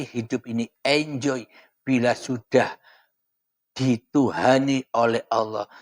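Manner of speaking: talking around a cigarette; smoking while speaking; cigarette in mouth. Real, not acted. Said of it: "Mohon maaf sambil merokok".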